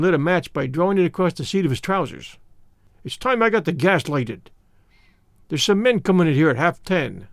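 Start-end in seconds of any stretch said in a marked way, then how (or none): 3.0-7.3 put-on an old border radical holding forth in broad Scots; lightly voiced Scots elder, earnest and proud; Scots labour man. Old Amos lectures Mister Brand on the war, lightly voiced Scots.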